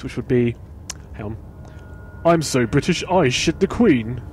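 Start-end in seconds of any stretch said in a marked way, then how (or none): 2.2-4.2 a hint of a plummy English accent, slow on the end; lightly hammed-up posh British. Shown as a demonstration. Reading a viewer's shout-out in a mock posh British accent. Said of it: "in a more posh voice".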